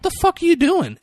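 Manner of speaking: high squeaky what the fuck; hammed-up angry boyfriend; imitating a baffled yell; mock outraged yell. Boyfriend yelling in cafeteria.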